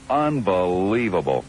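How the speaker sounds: slow, drawn-out disbelief; exasperated disbelief. Real, not acted. Host after the caller hangs up, slow exasperated disbelief. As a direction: stretch the word out in exasperation.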